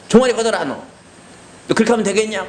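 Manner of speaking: put-on elderly mother's rebuke; scolding mother. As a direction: rebuke him before the cane. Mother scolding before caning.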